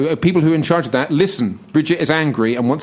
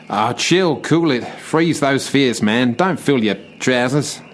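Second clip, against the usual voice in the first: put-on Aussie accent; 2 semitones lower, slower than usual. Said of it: "I'm an Aussie".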